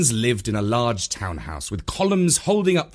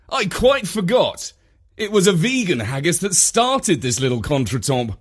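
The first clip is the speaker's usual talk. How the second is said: lightly voiced, higher-pitched visitor excusing himself; smooth it over in a raised pitch; apologetic visitor; 7 semitones higher, 3 dB louder than usual. A narrator's reading.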